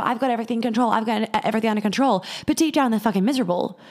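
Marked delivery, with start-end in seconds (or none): 0.0-0.9 mock self-assurance. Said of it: "acting out their trauma of". 0.9-2.3 quicker mock self-assurance. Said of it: "acting out their trauma of".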